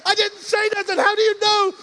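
loud, high amazed question; can't believe she already knows; astonished protest. Retold or imitated. Son asking his mother how she knew, astonished. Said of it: "I'm like".

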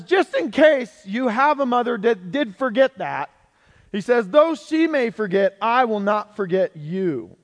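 emphatic, declaiming Bible reading; dramatic scripture reading. Acted. Preacher reading God's promise to a congregation, declaiming.

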